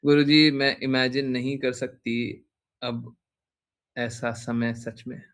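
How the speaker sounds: slow, halting, deeply moved; real overwhelmed devotion, slowly spoken; emotionally overwhelmed. Real, not acted. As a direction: search slowly for words, overcome with devotion. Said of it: "भाव विभोर हैं गुरुजी".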